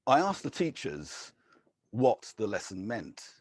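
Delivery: measured, deliberate poetry reading; poem reading. Acted. Poet reads short stanzas to an audience, measured. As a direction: give each short stanza its own quiet weight.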